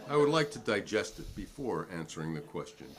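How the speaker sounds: words broken by a dry laugh; wry laughing. Real, not acted. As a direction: laugh through the sarcasm at the question. Witness mocking a long question.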